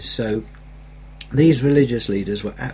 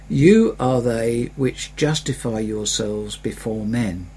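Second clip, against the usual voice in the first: scripture reading. Acted.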